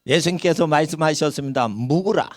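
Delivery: imitated Gyeongsang preacher; Gyeongsang accent. Gyeongsang pastor quoting Jesus to his flock, in a light regional accent. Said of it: "경상도 말이 나오니까".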